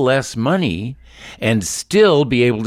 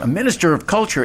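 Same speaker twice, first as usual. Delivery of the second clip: surprised echo; 8 semitones higher, faster than usual. Real, not acted. Incredulous echo of the phrase.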